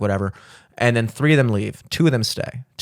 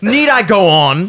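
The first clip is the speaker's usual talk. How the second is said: laughing; 8 semitones higher, 6 dB louder, slower than usual. Real, not acted. Joking list of porn sites.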